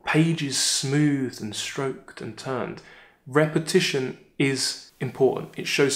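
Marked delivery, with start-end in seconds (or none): 0.1-2.8 slow and tender, each verb given its own time; slow poetic reading. Shown as a demonstration. Teacher reading the line slowly so the class hears the verbs. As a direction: read it as gently as the verbs. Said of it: "Now listen to this".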